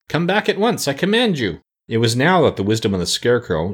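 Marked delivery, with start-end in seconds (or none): 0.1-1.6 put-on high, urgent boyish order; frightened command. A narrator's reading. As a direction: command it in alarm, pitched well up. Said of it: "cried Tip in a frightened voice".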